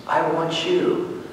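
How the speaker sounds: soft, slow and tender, a calm divine voice; like God calling a son softly; gentle voice of God. Retold or imitated. God gently calling the angry student, soft and slow. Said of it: "he heard a voice saying".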